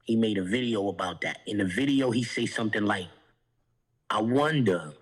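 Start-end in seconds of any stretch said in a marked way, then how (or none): 4.1-4.9 imitating a Boston accent. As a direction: put on his Boston voice for the quote. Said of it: "you know the Boston voice he used".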